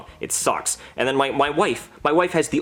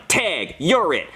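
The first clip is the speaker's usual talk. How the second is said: slow, smug delivery; smug deadpan tag; much slower than usual. Retold or imitated. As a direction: draw it out with cold satisfaction. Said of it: "and I'm like".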